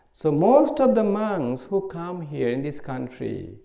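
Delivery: ordinary talk, nothing marked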